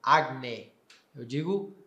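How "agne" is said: agne with a final e; classical agne. Shown as a demonstration. Teacher showing the old classical sound. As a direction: say agne ending in e. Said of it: "eu não digo mais agne".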